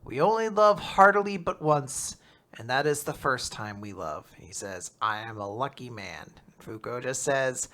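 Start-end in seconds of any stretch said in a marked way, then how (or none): 0.0-4.3 lightly mock French accent. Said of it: "he speaks in French to us". 5.0-6.3 put-on low, soft French accent. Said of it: "he speaks in French to us".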